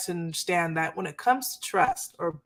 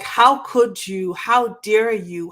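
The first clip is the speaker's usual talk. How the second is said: slow, louder mock fury; hammed-up hurt rage at a partner; imitating angry outburst; 6 dB louder, slower than usual. Hurt partner confronting the cheater, slow louder mock anger.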